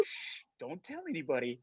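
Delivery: soft retold shushing; hushed secrecy. Crew showing secret Baby Grogu on set, hushed. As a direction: imitate a hushed warning.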